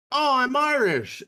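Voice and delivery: high, loud, slow boast of a tourist; mock proud tourist. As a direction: play the proud Irish-American tourist. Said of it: "he goes like".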